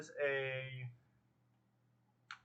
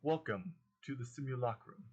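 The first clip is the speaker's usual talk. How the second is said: even, machine-like announcement; robotic voice. Acted. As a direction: speak it as a computer system. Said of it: "like, this robotic voice".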